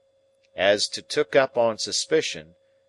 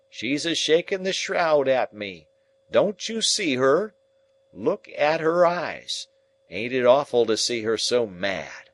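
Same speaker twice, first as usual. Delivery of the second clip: high, loud pleading about the ghost; terrified raving; 5 semitones higher, 4 dB louder than usual. Acted. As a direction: rave in horror, pointing at her. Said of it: "he cries out".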